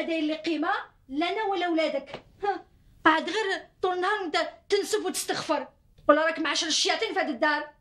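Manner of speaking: wife crying out her grievances to her husband; tearful complaint. Acted. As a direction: voice crying through the words. Wife breaks down in quarrel.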